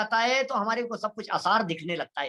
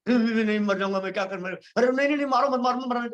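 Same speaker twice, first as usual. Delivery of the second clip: mock terror, begging not to be shot; a hammed-up cry of fear; panicked pleading; faster than usual. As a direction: plead for your life at gunpoint. Man begging at gunpoint.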